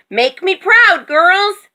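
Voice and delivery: high, loud rallying call; rally the troops as a bossy rooster; shouted high and proud; rooster's shout. A narrator's reading. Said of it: "shouted the rooster".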